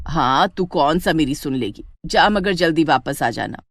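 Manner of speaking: a hint of a resigned village mom; grudging mother.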